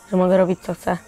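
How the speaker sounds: ordinary talk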